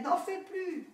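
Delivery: high, loud desperate order; shouting. A narrator's reading. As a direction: cry out for it to stop. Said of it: "criait-elle".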